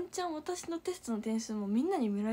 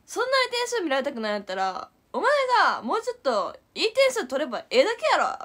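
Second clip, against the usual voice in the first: loud, raised Kansai telling-off, higher; angry scolding; 4 semitones higher, 7 dB louder than usual. Retold or imitated. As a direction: scold the pupil hard in front of the class. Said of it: "なんかめっちゃ怒ってて".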